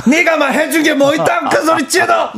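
high, laughing Gyeongsang dialect rant; angry dialect rant. Retold or imitated. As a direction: scold in thick Gyeongsang dialect. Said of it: "그리고 사투리".

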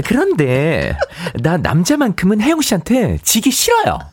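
nasal coy rival voice. Shown as a demonstration. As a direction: speak sweetly through the nose. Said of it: "살짝만 또 맛보여줄 수 있어요?". (코맹맹이 목소리)

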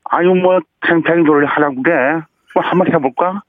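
Chung Ju-yung impression. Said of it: "정주영 회장님 한번 해보시겠습니까".

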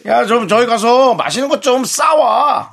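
싸와 said with a hard tense ss, slow and high. Shown as a demonstration. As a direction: stretch 싸와 out with a tense doubled ss. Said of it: "쌍시옷으로 얘기하는 거야". (싸와를 된소리 ㅆ으로 세게 발음)

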